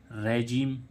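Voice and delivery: रेजिम said "re-zheem", with the "i" as a long "ee"; pronunciation demo. Shown as a demonstration. Teacher models the word for the students, then clear pronunciation. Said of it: "अब देखते हैं इसमें जैसे".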